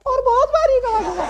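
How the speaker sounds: very high, thin squeaky voice. Shown as a demonstration. Teacher showing class a thin high voice. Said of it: "अगर मैं आवाज पतली कर लूं".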